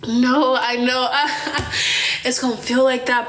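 slow, dopey imitation of brother; dumb brother. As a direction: play the out-of-it brother trying to reassure. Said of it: "he looked so damn dumb".

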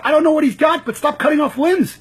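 a doctor's plea, pushed up loud. Retold or imitated. Retelling a surgeon demanding they stop, loud. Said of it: "He says".

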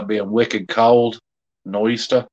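slow, put-on Boston accent; mock Boston accent. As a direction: play at being a Bostonian, dropping the Rs. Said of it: "In a Boston accent".

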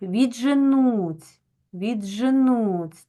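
slow «відженуть» with д merged into a long дж; doubled ж sound. Shown as a demonstration. Teacher lets pupils hear the doubling, slow stretched «відженуть». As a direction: draw out «відженуть», letting the consonant sound doubled. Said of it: "ми чуємо ось ця, начебто як подвоєння".

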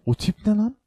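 real shocked squeal; incredulous. Real, not acted. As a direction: shriek at how weird it looks. Gawking at a strange creature.

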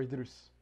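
Idrus ending in "-roos"; variant pronunciation. Shown as a demonstration. Checking a filmmaker's name, Idrus ending in "-roos". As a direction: say Idrus with an "oo" in the last syllable.

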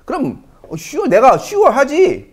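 sure said high and slow, leaning on it; slow, high, insistent "sure"; emphatic sure. Shown as a demonstration. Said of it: "막 이런 느낌이에요".

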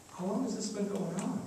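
soft, tender question; softly voiced care for a suffering family; compassionate Jesus. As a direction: ask gently, with quiet concern. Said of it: "we hear the compassion and the love".

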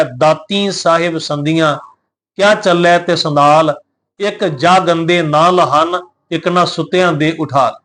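slow, measured chanting of the verse; scripture recitation. Acted. Preacher quotes the Guru's verse to the congregation in a slow, measured recitation. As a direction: recite each phrase slowly and reverently.

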